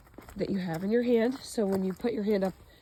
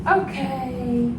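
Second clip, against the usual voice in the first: higher, louder bright release call; release cue; 4 semitones higher, 6 dB louder than usual. Real, not acted. Trainer releasing her dog from wait, upbeat and loud. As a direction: let her go with an upbeat okay.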